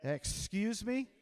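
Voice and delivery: very slow, stretched question with a rising end; slow indignant comeback; challenging retort. Shown as a demonstration. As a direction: draw it out for the crowd to join. Leads audience in catchphrase once more.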